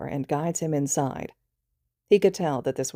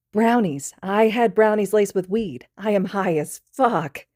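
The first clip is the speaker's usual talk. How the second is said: higher, louder giggly admission; snickering confession; 5 semitones higher, 4 dB louder than usual. Acted. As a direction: confess it smugly, barely holding in a laugh. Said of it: "Midoriya snickers".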